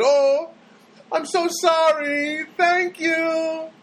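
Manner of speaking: high, slow put-on customer service voice; phone girl's voice. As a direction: mimic the polite phone clerk, up high.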